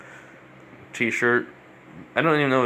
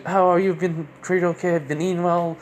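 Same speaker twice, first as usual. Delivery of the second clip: higher-pitched voice imitating a doting mom; lightly acted motherly questioning, pitched up; fussing mom; 5 semitones higher than usual. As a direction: fuss over them like an overwhelming mother. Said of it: "acting like a mom".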